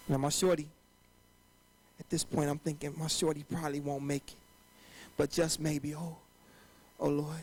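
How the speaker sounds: low, hushed and somber; quiet. Acted. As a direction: drop it down to a murmur. Somber spoken aside.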